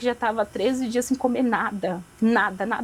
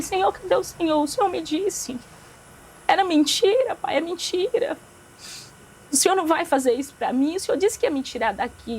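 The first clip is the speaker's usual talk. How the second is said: higher-pitched retold plea to God; pleading; 6 semitones higher than usual. Sick girl questioning God from her hospital bed, higher, pleading. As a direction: imitate a child's protest to a father.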